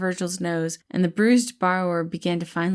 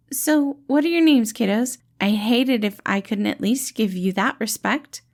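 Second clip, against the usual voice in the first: higher, louder friendly reassuring voice; gentle dad-like rescuer, pitched up and bright; cheerful caretaker Patton; 4 semitones higher, 4 dB louder than usual. Acted. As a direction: play the kind, upbeat helper calming a scared kid. Patton asks their names.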